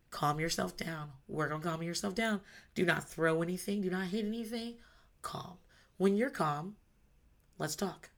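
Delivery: soft, measured calming instructions; calm parent. Retold or imitated. Parent to child in a tantrum, calm and soft. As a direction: talk a child down quietly.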